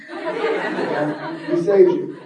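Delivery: slow drawn-out. Shown as a demonstration. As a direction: stretch "He saved you" very slow with a laugh. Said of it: "do it one more time".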